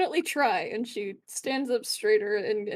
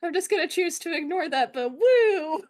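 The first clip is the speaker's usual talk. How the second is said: laughing cheer; 5 semitones higher, 5 dB louder than usual. Real, not acted.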